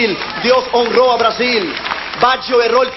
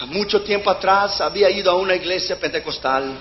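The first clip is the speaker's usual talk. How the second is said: lower, softer, a touch of weeping; understated crying voice; tearful confession; 4 semitones lower, 3 dB quieter than usual. Retold or imitated. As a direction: retell the boy's confession quietly, near tears. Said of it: "Empezó a llorar y dijo".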